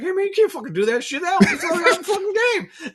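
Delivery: imitated scolding, very high, loud and fast; mock telling-off on the edge of laughter; trying not to laugh. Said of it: "he's trying not to laugh".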